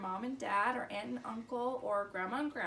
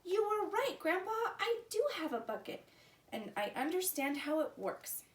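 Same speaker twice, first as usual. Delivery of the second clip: excited shout; 5 semitones higher than usual. Acted. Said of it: "he shouted".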